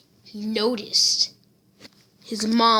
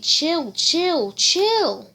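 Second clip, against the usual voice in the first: rising calm down; 7 semitones higher, much slower than usual. Acted. Seven people calming Deku.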